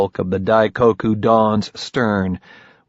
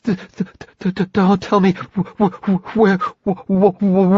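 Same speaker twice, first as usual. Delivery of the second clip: high, stuttering from cold; chattering teeth; 10 semitones higher than usual. Acted. Freezing in water, teeth chattering.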